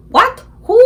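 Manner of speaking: high, loud shocked questions; father thrown by a phone call, voice leaping up; funny startled voice. Acted. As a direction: yelp it in astonishment. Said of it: "his voice goes all funny".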